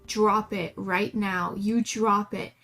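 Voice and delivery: stern owner ordering the dog to drop it; serious tone. Shown as a demonstration. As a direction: say it like you mean it. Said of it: "you can say it in a serious tone".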